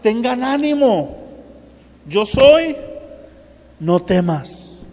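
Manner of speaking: lightly voiced Jesus, amused and reassuring; gently teasing, then comforting. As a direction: play Jesus chuckling at their fear, rising on yo soy. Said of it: "Jesús riéndose, diciéndole".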